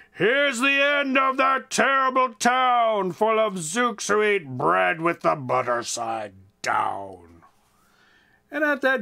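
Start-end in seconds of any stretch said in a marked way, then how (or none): 0.1-7.4 Grandpa screaming. Acted. Grandpa on the wall yelling at the zooks, slow hammed-up yell. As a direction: bellow it from the wall like a proud old grandpa. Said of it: "He screamed".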